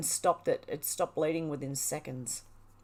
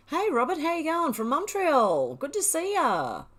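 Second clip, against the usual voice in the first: big excited greeting; 8 semitones higher, 5 dB louder than usual. Real, not acted. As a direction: call out a delighted welcome to a newcomer. Greets viewer arriving in stream.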